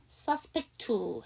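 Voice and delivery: "suspect to" linked, first T left out; dropped T. Shown as a demonstration. Teacher shows students where words link, dropped T in "suspect to". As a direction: run "suspect to" together with a single T. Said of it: "앞에 T 안 하고".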